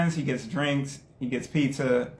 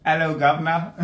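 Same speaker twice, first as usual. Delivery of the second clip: cheeky put-on British greeting; mock British accent; 3 dB louder than usual. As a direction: greet like a caricature Brit. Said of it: "This is the Queen's English".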